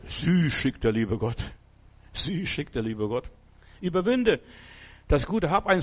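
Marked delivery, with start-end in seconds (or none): 2.1-3.3 softer repeat. Shown as a demonstration. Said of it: "repeated softer".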